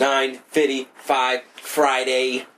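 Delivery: slow, flat robot voice. Acted. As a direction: beep boop robot readout. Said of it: "That's my new robot voice for today".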